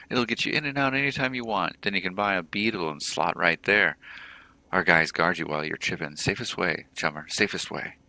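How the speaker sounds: keen sales patter, pitch jumping up; twitchy orc dealer, eager. Acted. Orc clocker talks up the lab to buyers, twitchy and eager. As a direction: sell it like a jumpy street hawker.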